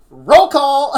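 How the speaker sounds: shouted through laughter, high; laughing shout. Acted. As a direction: yell it while cracking up. Reading the meme's punchline.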